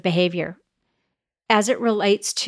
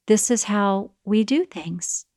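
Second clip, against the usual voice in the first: softer, slow and steady; calm guiding; 4 dB quieter, slower than usual. Retold or imitated. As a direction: gently set the rule.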